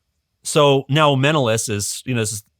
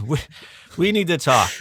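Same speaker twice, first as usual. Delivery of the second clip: lightly hammed-up mob boss impression, pitched higher; a hint of a mafia don, raised in pitch; Godfather; 3 semitones higher than usual. King summoning his debtor for a talk, lightly done Godfather voice. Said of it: "he said it in a Godfather voice".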